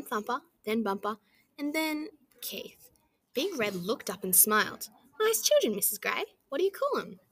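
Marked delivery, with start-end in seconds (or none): 5.2-7.2 loud, high hearty kangaroo chief; big booming leader. A narrator's reading. Big Red greeting the nervous mother, loud and hearty. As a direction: boom it out like a jolly big boss.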